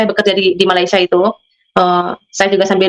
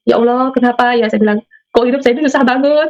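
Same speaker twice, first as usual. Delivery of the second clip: retold lament; 3 semitones higher than usual. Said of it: "saya nangis".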